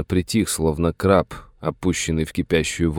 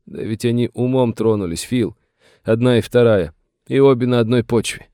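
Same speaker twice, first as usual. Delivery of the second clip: higher, plaintive confiding; agitated old master; 6 semitones higher than usual. A narrator's reading. Master tells the sheriff of his family's madness, agitated. Voices aggrieved Satter.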